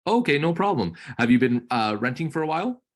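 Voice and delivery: bright, friendly sales chat; upbeat realtor on call. Acted. Coach playing realtor to trainee's lead, upbeat. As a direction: keep the lead talking warmly.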